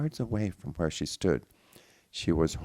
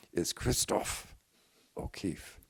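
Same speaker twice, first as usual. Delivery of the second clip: slow, breathy whisper; hushed reveal; 2 semitones higher, slower than usual. Acted. Revealing the father's name.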